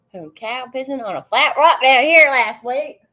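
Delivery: reading it out through real laughter; cracking up mid-sentence; giggling through a silly chat line; laughing. Real, not acted. Laughing while reading a chat message.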